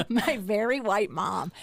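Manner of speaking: slow, amused repeat through laughter; laughing echo. Real, not acted. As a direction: repeat it slowly while cracking up. Amused echo of son's joke.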